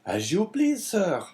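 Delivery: high, obliging innkeeper voice; Caderousse. A narrator's reading. Innkeeper to his customer, obliging. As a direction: agree in a high-pitched host's voice. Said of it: "said Caderousse".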